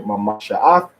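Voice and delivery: Mamasha'ath with inflection on the next-to-last syllable. Shown as a demonstration. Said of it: "next to the last syllable".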